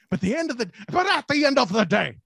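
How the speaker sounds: lightly hyped-up sports hype voice; a hint of a pumped-up TV hype man. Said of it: "that's my hyped up, uh, Hypel, uh, impression from the One and Only Show".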